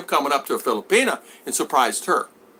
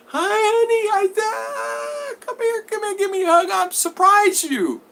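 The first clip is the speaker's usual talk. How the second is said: very high, loud, gushing call; excited shout; 3 dB louder, slower than usual. Retold or imitated. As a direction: yell it with open arms. Suitor rushing to his girl.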